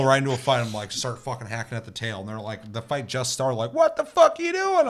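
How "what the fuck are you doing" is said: very high, loud mock shriek; a shocked beast, hammed up high; monster's outraged squeal. Monster voiced in a fight story.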